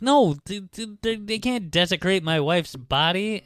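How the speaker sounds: high, stammering imitation of a distraught husband; mock crying protest. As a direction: lightly play tearful pleading, stumbling over words. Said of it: "Morgan is crying".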